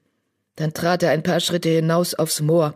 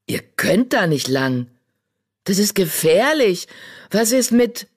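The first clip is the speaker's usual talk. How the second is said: alarmed protest; 4 semitones higher than usual. Acted.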